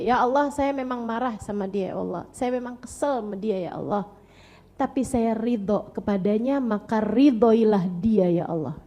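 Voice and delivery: put-on a calm mother's prayer for her child; gentle prayer.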